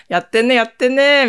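a light copy of a prank YouTuber's teasing catchphrase; imitating Kenzo. Copying a YouTuber's catchphrase for podcast listeners, lightly imitated. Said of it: "モノマネは".

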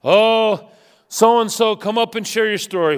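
mock the eager invitation; gushing church host. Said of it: "We celebrate the prodigals".

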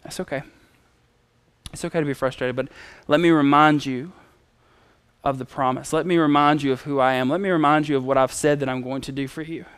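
soft, low reassurance; tender, understanding tone, kept down; comforting God. Retold or imitated. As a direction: console him quietly, then gently remind him. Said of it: "God wraps his arm around him".

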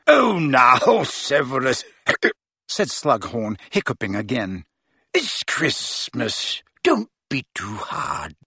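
put-on merry old professor, a little drunk, slow at the end; tipsy jovial professor. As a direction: coax him gently between hiccups. Slughorn tipsy, hiccuping, pleading.

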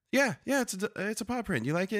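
high-pitched imitation of a delighted wife; mock-eager and bubbly; pleased wife. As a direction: chirp it as the flattered wife. Voices wife's pleased reply.

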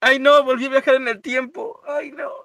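high-pitched playful lament; hammed-up "oh no"; mock dismay. Playful dismay at time travel.

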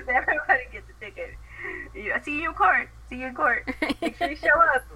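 loud, high hammed-up cop; mock cop voice. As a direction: play the greedy cop for laughs. Mocking cops.

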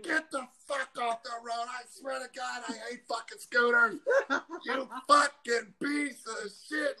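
mild mock rage, laughing through it; half-laughing imitation of an angry driver; retold yelling. Retelling the driver cursing at him, laughing mock yell. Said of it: "And he's still".

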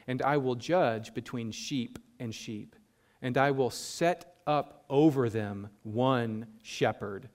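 slow, measured Bible reading; scripture reading. Acted. Preacher reading Ezekiel to the congregation, slow and measured. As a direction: read the verses solemnly and slowly.

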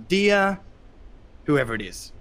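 high, heated ranting with swearing; anger letter rant. Shown as a demonstration. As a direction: spit the swearing out like an angry letter. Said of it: "the way you start an anger letter is like".

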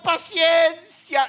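"Paciencia" muy lento y tranquilo; drawn-out calm patience. Shown as a demonstration. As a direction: stretch out "Paciencia" slowly and evenly, ending with a fall. Pastor's answer repeated again.

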